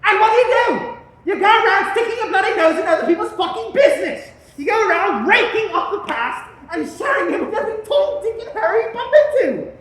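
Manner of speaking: furious scolding. Acted. Father berates son.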